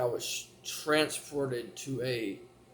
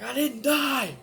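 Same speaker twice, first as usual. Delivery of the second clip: high, louder stubborn denial; flat denial; 11 semitones higher, 5 dB louder, slower than usual. Retold or imitated. Teenager denying to family he died, high stubborn. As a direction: insist it, voice up high. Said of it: "I'm like".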